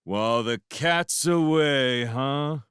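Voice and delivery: slow, loud, hammed-up accusing; mock accusation. A narrator's reading. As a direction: theatrically accuse the pair. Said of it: "he accused".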